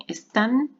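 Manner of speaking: están held up with a rising pitch; single out están, lifting the end; emphasis on están. Shown as a demonstration. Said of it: "miren que yo lo digo así".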